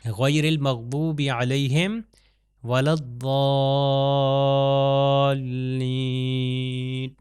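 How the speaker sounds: الضالین with the madd held very long after a heavy ض; chanted verse with the madd of الضالین drawn long. Shown as a demonstration. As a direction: stretch الضالین out slowly. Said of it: "ضاد کے بعد الف ہے اور اس کے بعد ایک ہمارے پاس یہاں پر یہ مد ہے".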